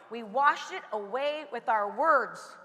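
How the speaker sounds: slow and low, leaning on words; slow, low emphasis. Shown as a demonstration. Speaker teaches the audience slowly and low, stressing words. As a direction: drop the pitch and slow right down, landing on words. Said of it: "How do we wash it away?".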